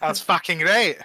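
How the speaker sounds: lightly imitated Australian accent; bad Australian accent. Copying a friend's line for co-hosts, bad Australian accent. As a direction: repeat it as jokey bad Australian. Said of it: "he always does a shit Australian accent".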